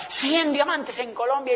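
high, slow, stretched-out holler; imitated stage yell. Diamond on stage to four thousand people, high drawn-out yell. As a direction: call it out to rouse thousands. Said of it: "el diamante que estaba aquí en la tarima gritaba".

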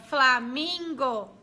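"flamingo" drawn out slowly, syllable by syllable; slowed syllable-counting demo. Shown as a demonstration. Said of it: "quanto ao número de sílabas".

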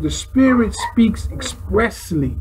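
slow, pointed, leaning on each word; with attitude. Shown as a demonstration. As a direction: read it like the Spirit means business. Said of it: "that's with an attitude".

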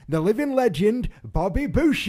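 lightly voiced dramatic TV announcer; a hint of a show intro, slowed. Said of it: "I could do him one".

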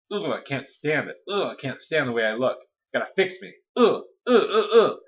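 mock strained loathing, building into repeated ughs; resistant self-disgust. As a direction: act out fighting against yourself with groans. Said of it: "having this resistant type way".

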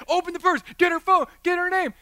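loud, high-pitched urgent yell; re-enacted emergency shouting; frantic shouted orders. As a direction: bark it out in the thick of an emergency. Re-enacts ordering his kids in emergency.

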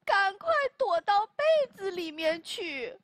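slow, mock tearful call; a touch of crying in the voice. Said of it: "带着哭腔喊道". (略带哭腔地喊)

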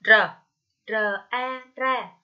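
"R" with the tongue curled up and vibrating; curled, trilled R. Shown as a demonstration. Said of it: "cong và rung lưỡi lên âm r". (đánh vần "ra", cong và rung lưỡi)

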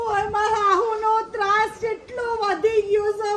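wailing grievance to mother; loud crying complaint. Acted. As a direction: complain in a hammed-up tearful wail. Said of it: "જોર જોરથી રોવે છે".

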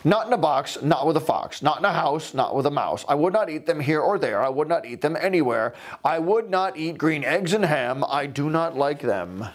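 a hint of a grouch refusing; crotchety old man. The old man turns Sam down, mildly grumpy. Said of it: "the crotchety old man says".

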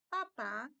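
"Papá" with a loud stressed last syllable; stress on final syllable. Shown as a demonstration. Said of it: "sino papá".

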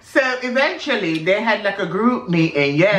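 a light mock British accent, ending lines on yeah?. Telling a friend about Big Brother UK in a mock British accent. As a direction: put on a cheeky UK accent, tag each line with yeah. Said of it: "you don't have to say yeah after every sentence".

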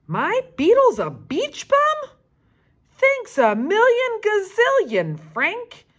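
sarcastic. Acted. Judy sarcastic dismay.

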